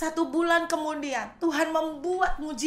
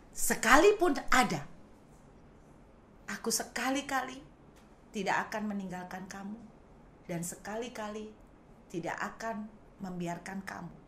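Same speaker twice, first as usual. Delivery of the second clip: janji lembut; 7 semitones lower, 6 dB quieter than usual. Retold or imitated. God's promise quoted softly.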